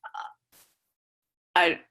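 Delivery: normal talking voice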